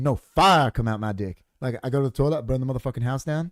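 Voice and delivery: lightly imitated stand-up comic, insistent; Eddie Murphy. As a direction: stretch the opening complaint like a stand-up punchline. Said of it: "Do Eddie Murphy".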